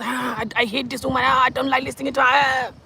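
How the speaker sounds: high whiny imitation of haters; mock complaining. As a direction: mimic a disgusted viewer in a high wail. Mimics viewers who hate her.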